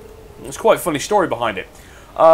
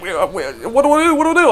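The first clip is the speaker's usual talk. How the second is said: mock flustered panic; 8 semitones higher, 3 dB louder than usual. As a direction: voice jumping higher and higher in fake despair. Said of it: "He's like".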